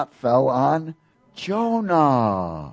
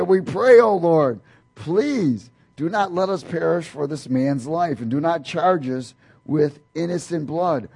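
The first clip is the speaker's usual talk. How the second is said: desperate prayer; 5 semitones higher, 4 dB louder than usual. Acted. Sailors crying out to Lord.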